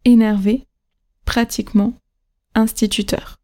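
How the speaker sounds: "énervé", "pratiquement", "instituteur", stressed at the very end; énerVÉ, pratiqueMENT, instituTEUR as separate model words; last-syllable stress. Shown as a demonstration. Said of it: "c'est toujours la dernière".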